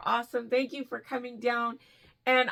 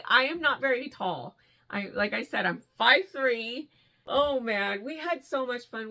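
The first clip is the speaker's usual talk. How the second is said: normal talking voice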